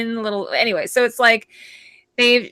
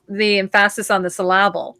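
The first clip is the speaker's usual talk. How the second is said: "emphasis" and "syllable" stressed on their second syllables; joking misplaced stress. Shown as a demonstration. Host explains her Canadian tiramisu, joking misplaced stress. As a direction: lean on em-PHA-sis and syl-LA-ble. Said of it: "See, I put the em".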